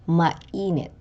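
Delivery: mainit with stress on the middle -i-; penultimate stress. Shown as a demonstration. Teacher repeating a penultimate example, middle syllable stressed in mainit. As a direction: lean on the second syllable of mainit. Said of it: "given to the syllable before the last".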